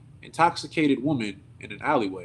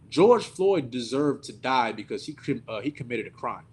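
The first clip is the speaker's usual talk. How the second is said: slow quote. Retold or imitated. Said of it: "and I quote".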